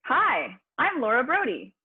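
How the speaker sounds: bouncy, rhythmic hello with a lift; rhythmic upbeat intro. Shown as a demonstration. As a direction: give the name a sing-song beat. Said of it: "put some rhythm into it".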